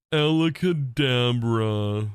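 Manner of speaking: very slow, stretched magic word; slow magician voice. Shown as a demonstration. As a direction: intone it like a showman. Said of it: "You can sound".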